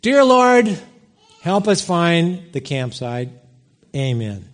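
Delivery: mock prayer said without belief; half-hearted prayer. Angry dad praying to appease his child, half-hearted mock prayer. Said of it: "because I didn't believe what I was saying".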